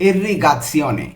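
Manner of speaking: irrigazione spelled out very slowly, syllable by syllable; slow Italian word. Shown as a demonstration. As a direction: drag out irrigazione for the learner. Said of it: "Bangla উচ্চারণ র এর ওই শিকারটা নেই". (irrigazione ধীরে ধীরে, প্রতিটি অক্ষর আলাদা করে)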